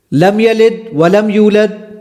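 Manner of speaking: "لم یلد ولم یولد" slowly, with deliberately faulty vowels; deliberately wrong recitation. Shown as a demonstration. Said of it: "میں اس کو غلط پڑھوں گا". ("لم یلد ولم یولد" جان بوجھ کر غلط تلفظ سے، ٹھہر ٹھہر کر)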